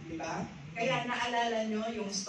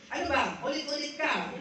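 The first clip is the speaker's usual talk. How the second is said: a snappish ano ba, louder and higher; mock irritation; 4 semitones higher, 4 dB louder, faster than usual. Preacher imitating someone fed up with repeated questions, mock irritated. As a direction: play the pestered person losing patience. Voicing an irritated person being pestered.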